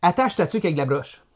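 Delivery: thick Québécois accent, laughing; broad Quebec French, half shouted. Shown as a demonstration. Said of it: "je vais utiliser mon accent québécois".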